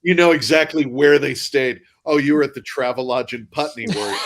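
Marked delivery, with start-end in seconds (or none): 2.0-4.2 high, loud teasing query; mock interest. Teasing actors back from London, mock interest. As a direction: needle them with a laugh creeping in.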